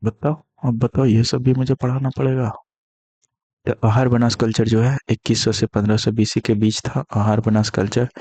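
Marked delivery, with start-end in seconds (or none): 0.0-2.5 higher exasperated complaint; teacher exasperated by a silly question, pitched higher. Real, not acted. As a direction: throw up your hands at silly options. Teacher mocks silly answer options.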